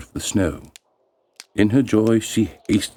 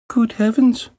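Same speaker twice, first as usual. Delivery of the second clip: high startled cry; girl's dismay; 3 dB louder than usual. Acted. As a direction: gasp it out, much higher. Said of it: "said the girl".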